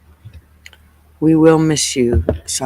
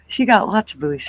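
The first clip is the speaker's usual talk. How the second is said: words stretched by a yawn; 5 semitones higher than usual. Real, not acted. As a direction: talk through a lingering yawn. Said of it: "Sorry, I'm still yawning".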